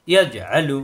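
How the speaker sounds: ইয়াজে আলু with জ bounced before আলু; qalqalah bounce. Shown as a demonstration. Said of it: "এখানে বাড়ি খাবে".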